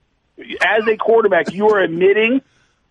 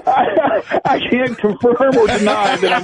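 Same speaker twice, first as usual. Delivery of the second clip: laughing; 5 semitones higher than usual. Real, not acted. Caught out, laughing denial.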